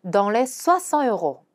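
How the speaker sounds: slow French, "soixante" stressed; careful teaching read; slow demo pronunciation. Shown as a demonstration. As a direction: model slowly. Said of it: "이런 식으로 말하는 거죠".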